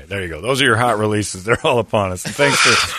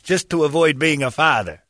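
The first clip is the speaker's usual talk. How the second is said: mock tragic announcement; 7 semitones higher than usual. Mock dramatic news of death.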